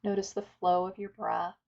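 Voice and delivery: calm, unhurried meditation guidance with long pauses; guided meditation. Acted. Teacher inviting listeners to settle and follow the breath, guided meditation. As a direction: guide listeners gently through breath and stillness.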